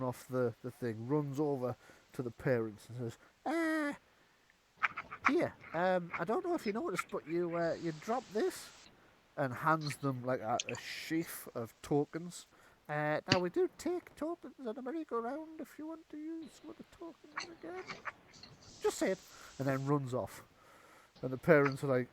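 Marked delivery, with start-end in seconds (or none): 3.4-8.7 high, fussy goblin voice; a kindly goblin covering a gift, pitched up. Acted. Goblin to the parents, a high kindly goblin voice. 12.9-19.2 very high goblin chatter. Acted. Goblin to the parents, a very high goblin voice.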